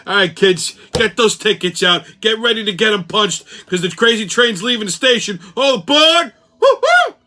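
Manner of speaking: loud, high, hammed-up conductor; train conductor's call. Conductor rallying kids onto the crazy train, hammed-up shout. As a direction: call out boarding like a showy conductor, building to a whoop.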